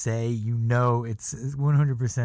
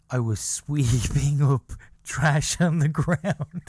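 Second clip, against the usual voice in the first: laughing; 2 semitones higher, 5 dB louder, slower than usual. Real, not acted. Laughing while quoting.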